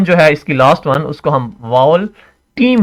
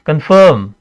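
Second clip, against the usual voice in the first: कन्फर्म with a long, emphasized second syllable; stressed syllable. Shown as a demonstration. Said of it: "आई stress हो रहा है".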